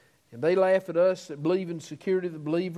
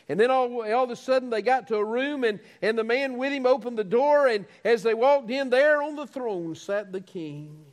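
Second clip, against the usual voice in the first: pitched-up, building preacher's narration; fervent sermon storytelling; 5 semitones higher, 4 dB louder than usual. Real, not acted. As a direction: drive towards the big reveal from the pulpit.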